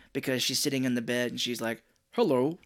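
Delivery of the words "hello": imitating a woman forcing a man's voice; mock man's voice. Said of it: "her voice deepened and she started talking like a man".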